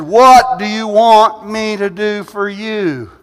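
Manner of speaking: Jesus asking. Acted. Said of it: "He said".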